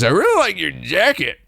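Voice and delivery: high, exaggerated imitation of her compliment; mock tourist girl. Girl complimenting a stranger's jacket, hammed-up high voice. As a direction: push it up high, hamming up the girl. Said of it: "She says".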